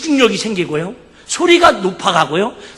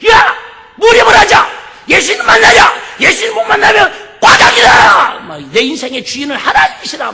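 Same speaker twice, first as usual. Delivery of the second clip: rousing shout; 10 semitones higher, 7 dB louder than usual. Retold or imitated. Pastor rousing youth campers.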